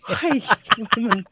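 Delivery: sudden high startled hey; mock startled outburst; mock shocked hey. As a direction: yelp it like a stunned judge. Imitating show's shocked judge.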